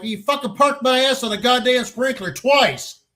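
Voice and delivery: high-pitched indignant tirade; hammed-up angry protest; retold outrage. Chews out drum major, retold.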